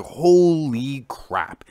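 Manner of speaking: awed surprise. Retold or imitated. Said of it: "I was just like".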